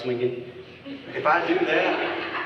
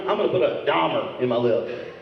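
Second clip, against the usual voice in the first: deeper on Dahmer. Acted. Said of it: "why did your voice go deeper on Dahmer".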